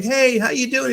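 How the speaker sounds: high, lilting hello to a coworker; cheery greeting. Retold or imitated. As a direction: greet them brightly with pitch up. Cheerfully greeting another bellman, retold.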